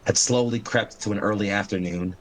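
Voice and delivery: measured, dramatic scene setting; game master narration. Acted.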